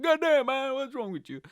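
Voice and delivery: loud, high "God damn, man"; exasperated shout. Pretend. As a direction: yell it at the guy in disbelief. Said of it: "I should have said to that guy".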